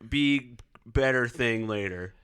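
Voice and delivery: put-on high babyish voice. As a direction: talk like a little toddler. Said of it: "I'll stop doing the stupid baby voice".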